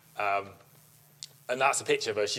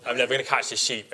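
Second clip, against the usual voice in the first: louder, alarmed outburst; mock panic; 3 semitones higher, 5 dB louder than usual. Owner watching her sheep vanish into the show, alarmed. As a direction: cry out as the sheep bolts.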